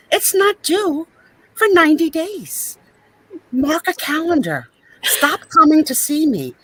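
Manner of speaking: a touch of fed-up pharmacist ranting; Angela impression. Imitating Angela ranting about old customers, mildly hammed-up. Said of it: "That was Angela".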